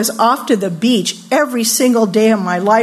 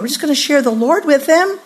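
higher, naive assurance; wide-eyed innocence; 4 semitones higher, faster than usual. Acted. Girl explaining away her risky dating, wide-eyed innocence. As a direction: lightly play the starry-eyed believer. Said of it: "we're so wide-eyed about it".

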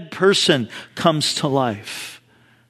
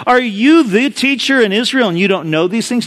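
mild, higher-pitched rebuke; pointed, incredulous question in quotation; chiding; 4 semitones higher than usual. Retold or imitated. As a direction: lightly act out a teacher's reproof. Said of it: "what Jesus kinda chides him for".

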